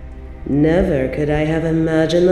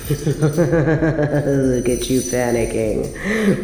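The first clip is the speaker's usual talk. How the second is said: chuckling, drawn-out taunt; cruel amusement; much slower than usual. Acted. Queen mocking her panicking captive, gleeful chuckle. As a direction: laugh your way into the taunt.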